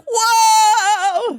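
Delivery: high loud startled whoa; shocked whoa. Real, not acted. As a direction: cry out in shock. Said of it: "I was like".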